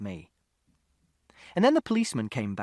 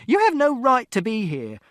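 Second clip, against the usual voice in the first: very high, loud, outraged yell; furious shout; 11 semitones higher, 8 dB louder than usual. A narrator's reading. Mother to father in the flat, furious shout. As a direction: scream it at him. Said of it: "And Mother shouted".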